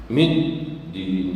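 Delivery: "Middin" with a stop on the double d; isolated model "Middin", dd pressed; shaddah stressed. Shown as a demonstration. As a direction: hold the dd of Middin before releasing. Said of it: "Di situ ada syaddah".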